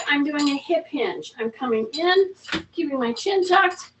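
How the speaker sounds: ordinary delivery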